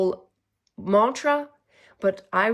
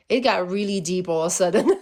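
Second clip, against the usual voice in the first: laughing; 4 dB louder, faster than usual. Real, not acted. Laughs off her own emotion.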